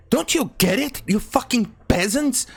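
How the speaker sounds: sarcastic aristocrat berating the peasants; snooty aristocrat. Pretend. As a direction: play a contemptuous lord scolding the rabble. Aristocrat scolding the protesters.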